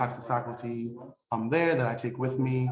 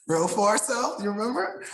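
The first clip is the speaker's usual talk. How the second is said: playful, much higher voice on "real far south"; exaggerated high emphasis; 10 semitones higher, 3 dB louder than usual. Real, not acted. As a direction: pitch it up high, teasing. Joking about the distant campus.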